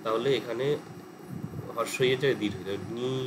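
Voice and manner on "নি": নি with a drawn-out final i; long vowel in নি. Shown as a demonstration. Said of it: "হলো দীর্ঘ".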